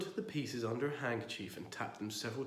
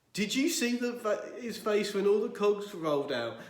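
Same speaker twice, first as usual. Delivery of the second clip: laughing; 9 semitones higher, 6 dB louder than usual. Acted. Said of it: "his face wet with tears".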